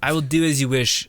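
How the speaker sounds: a fuller, mock-formal "I will do as you wish"; mock solemn vow. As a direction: declare "I will do as you wish" with hammed-up gravity. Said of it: "What are you?".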